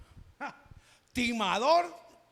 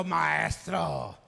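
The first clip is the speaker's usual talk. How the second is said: ironic disciples; 3 semitones lower than usual. Acted. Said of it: "con ironía se lo estaban diciendo".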